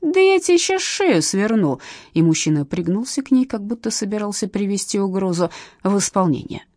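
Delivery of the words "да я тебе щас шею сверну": higher, slow menacing shout; he threatens to wring her neck; slow furious threat. A narrator's reading. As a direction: spit out each word of the threat. Man threatens the woman.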